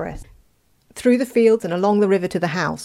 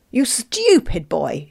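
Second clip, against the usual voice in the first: put-on slow, loud scolding of the boy; mother bellows at her foolish son; angry shout; 4 semitones higher, 4 dB louder, slower than usual. A narrator's reading. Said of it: "shouted the mother".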